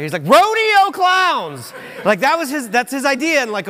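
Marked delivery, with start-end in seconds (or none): 0.3-1.7 big, high, drawn-out mock holler; imitated excited shout. Preacher imitates brother's sermon idea, long excited shout. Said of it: "and he shouts out".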